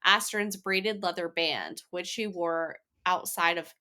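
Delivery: reading a chapter recap aloud; steady podcast recap narration; summary read. Acted.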